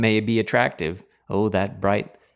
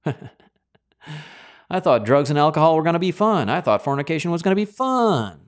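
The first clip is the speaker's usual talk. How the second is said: higher, louder rueful lament; regretful sinner; 7 semitones higher, 4 dB louder than usual. Retold or imitated. A sinner looks back on the fun, rueful and higher. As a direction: voice a let-down sinner. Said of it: "regretful sinner quote".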